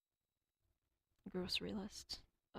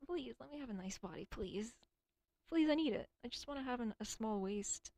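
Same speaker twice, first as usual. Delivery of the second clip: desperate pleading; 3 semitones higher, 4 dB louder than usual. Real, not acted. Begging for a nice body.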